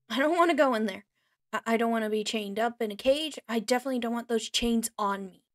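loud, panicked begging; desperate loud protest, speeding up; frightened pleading. Acted. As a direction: plead loudly, scared of the cage. Captive begging not to be caged.

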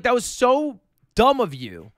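pissed-off mom, retold. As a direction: imitate a mom telling someone off. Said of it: "And she was just pissed".

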